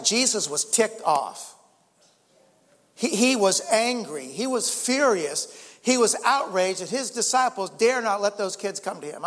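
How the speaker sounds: slow, weighty, building emphasis on his anger; strong emphasis. Real, not acted. Preacher to congregation, slow forceful emphasis on Jesus' anger. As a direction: lean hard into each word, slowing down. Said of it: "I'm saying as strong as I want to say it in church".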